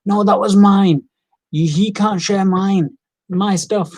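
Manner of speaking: mock a kid guarding his stuff; a hint of a hurt little brother; sulky sibling protest. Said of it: "you're just like".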